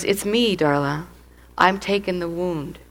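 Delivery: a soft reassuring voice; gentle hush. Retold or imitated. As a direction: speak softly as God comforting. God speaking gently inside her.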